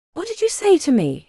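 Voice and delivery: mock outraged doctor; affronted. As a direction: rise in disbelief at the insult.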